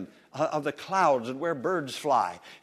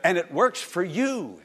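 loud, high, slow proclamation; emphatic preaching; 4 semitones higher, 7 dB louder than usual. Real, not acted. Preacher sealing the point after the congregation's echo, emphatic and loud. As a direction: ring it out word by word.

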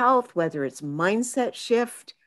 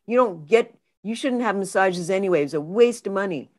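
mild self-scolding; 2 semitones higher than usual. Retold or imitated. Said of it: "walking around going".

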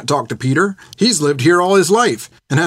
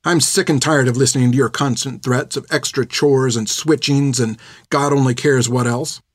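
angry outburst; 2 semitones higher than usual. Acted. Finn yells at the old nun Hilda, furious. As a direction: let the insults pile up, hotter and hotter. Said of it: "as she'd yelled at her".

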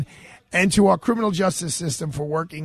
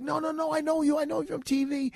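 high, excited street voice calling out; eager inmate; 12 semitones higher, 4 dB quieter than usual. Retold or imitated. Inmates in the hallway calling out to the lawyer, high and eager. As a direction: pester the lawyer for his card. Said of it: "He's like".

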